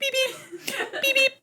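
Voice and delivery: high squeaky beep with a laugh; cat beep. Retold or imitated. Copying the kitten's beep, high and laughing. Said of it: "So she goes".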